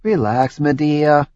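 unruffled and soothing; calm, even. Acted. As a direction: settle her down gently. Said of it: "in a calm, even tone".

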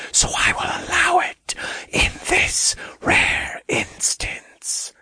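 ominous, breath-only demon lord; demon king. A narrator's reading. Demon king explains in whispery voice.

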